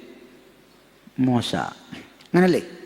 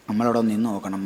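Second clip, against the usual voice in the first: usual speaking voice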